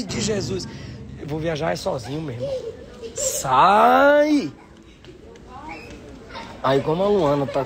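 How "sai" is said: shooing. Real, not acted. Shooing the kids away.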